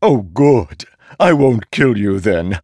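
gleeful talking sword threat; ringing metallic sword voice. A narrator's reading. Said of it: "listening to the sword chuckle".

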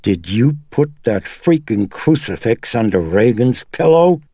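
cracking, climbing toward a shriek; near-shrill cracking. A narrator's reading. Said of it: "her voice cracking and at the edge of shrillness".

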